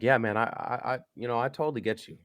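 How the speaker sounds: keen quick yeah man; eager agreeing. Retold or imitated. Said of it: "So I'm like".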